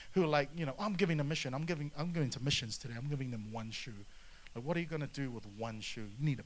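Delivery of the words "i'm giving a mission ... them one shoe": mocking stingy giver. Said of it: "I can't stand people who".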